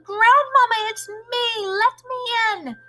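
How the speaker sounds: loud, high urgent call; shouting. A narrator's reading. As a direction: beg to be let in, calling out. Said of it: "I shouted as loudly as I possibly could".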